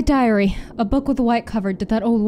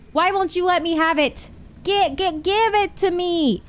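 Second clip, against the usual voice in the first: higher-pitched frustrated demand; frustrated pleading; 5 semitones higher than usual. Real, not acted. Player begging the game for an item, frustrated.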